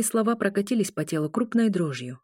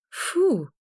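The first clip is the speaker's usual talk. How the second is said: disgusted; 9 semitones higher than usual. A narrator's reading. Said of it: "скривилась она".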